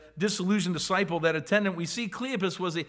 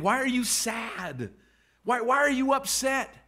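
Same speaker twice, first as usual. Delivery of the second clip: gentle rebuke; 4 semitones higher than usual. Acted. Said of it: "almost a rebuke".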